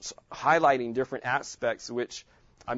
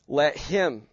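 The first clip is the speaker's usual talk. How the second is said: him pushed out louder; stress on him; 4 dB louder than usual. Shown as a demonstration. Teacher stressing him for the class. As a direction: lean on the word him. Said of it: "I'm emphasizing different words".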